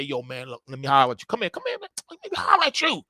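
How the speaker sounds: a corner hustler calling you over, half playful; hustle man voice. Acted. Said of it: "you see hustle man out there".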